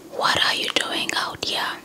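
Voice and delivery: ordinary delivery, nothing marked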